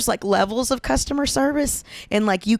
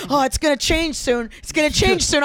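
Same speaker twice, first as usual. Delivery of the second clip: stoned person; 4 semitones higher than usual. Retold or imitated. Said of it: "like a stoned person".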